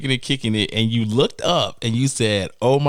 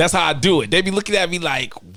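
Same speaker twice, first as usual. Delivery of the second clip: ordinary delivery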